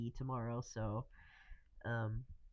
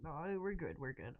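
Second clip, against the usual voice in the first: quiet; 8 dB quieter than usual. Real, not acted. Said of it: "I went, like, really quiet there".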